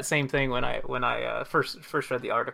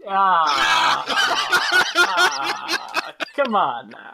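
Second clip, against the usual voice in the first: whiny protest; 3 semitones higher, 6 dB louder, much slower than usual. Acted. Protesting, voice stays put-on.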